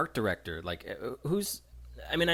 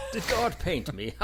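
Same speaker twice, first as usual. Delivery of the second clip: high, louder incredulous comeback; mock indignant man; 9 semitones higher, 5 dB louder than usual. Man about to punch the little kid, mock indignant. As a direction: throw the question back, mock-offended. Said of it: "waiting for him to punch the little kid".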